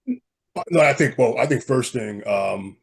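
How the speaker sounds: hoarse, under the weather; smoker's rasp. Real, not acted. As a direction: gravelly voice from a cold. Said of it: "little gravelly, um, I don't know, um, smoker's voice happening here".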